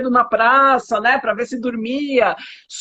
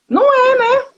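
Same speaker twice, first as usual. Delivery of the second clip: emphatic no; 13 semitones higher, 4 dB louder than usual. Real, not acted. Emphatic denial of a myth.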